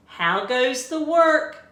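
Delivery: loud, high call; lazy farmer shouting. A narrator's reading. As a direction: call lazily from bed. Teacher voices farmer.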